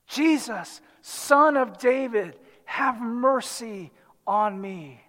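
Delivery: a restrained call for mercy, fading at the end; crying out. Acted. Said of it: "is cry out".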